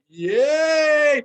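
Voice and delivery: high, drawn-out mock cheer; hammy, stretched-out yell; yelled catchphrase. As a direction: imitate the comic's big yelled yay. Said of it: "He's yelling yay".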